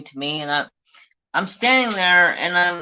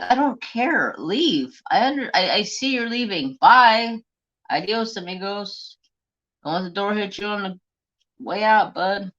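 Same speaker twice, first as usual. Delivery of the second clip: higher, mocking send-off; sarcastic bye, pitched up; sarcastic dismissal; 5 semitones higher than usual. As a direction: wave him out the door with fake cheer. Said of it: "I'm like".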